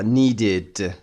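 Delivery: "needed" in two syllables, need-id. Shown as a demonstration. Teacher drilling past forms, "needed" with full id ending. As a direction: sound out the id in "needed". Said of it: "دی داره در انتها".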